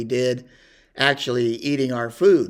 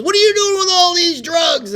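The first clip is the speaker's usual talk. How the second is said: much higher, much louder mock sergeant bark; drill sergeant yell; 8 dB louder than usual. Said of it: "And he says".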